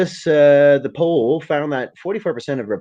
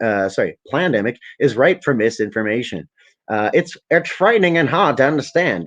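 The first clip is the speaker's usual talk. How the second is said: Bill Gates voice. Retold or imitated. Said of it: "It's my Bill Gates voice".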